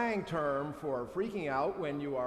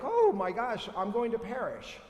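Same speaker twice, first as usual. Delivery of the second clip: mock panic; 6 semitones higher, 5 dB louder than usual. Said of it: "you're like".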